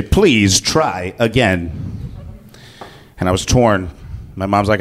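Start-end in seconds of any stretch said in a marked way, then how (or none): 0.0-1.9 very slow, flat machine voice; robot voice. Retold or imitated. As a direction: drag it out like a talking toy. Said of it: "it would say".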